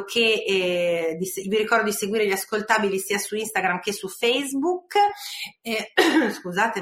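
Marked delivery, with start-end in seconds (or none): 5.6-6.8 throat clear from a cough. Real, not acted. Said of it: "ma oggi c'ho la tosse". (schiarita di gola per la tosse)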